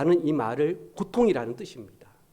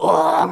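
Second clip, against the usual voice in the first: mock animal roar; 7 dB louder, slower than usual. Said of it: "소리를 막 치고".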